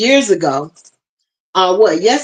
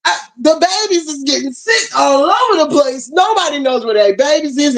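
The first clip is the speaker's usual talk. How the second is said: tearful; 5 semitones higher than usual. Real, not acted. Upset recalling sick babies.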